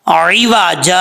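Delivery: عوجا ending on a long aa, tanween dropped; pausal form. Shown as a demonstration. Teacher showing students the pause reading. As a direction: stop on عوجا with a drawn aa. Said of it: "وقف کریں گے تو کیسے پڑھا جائے گا؟".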